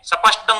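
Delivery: स्पष्टम said as sapashtam; full sa. Shown as a demonstration. Teacher showing Punjabi fault, sa-pashtam. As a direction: split the cluster with 'a', सपष्टम. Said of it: "या स के रूप में बोलता है".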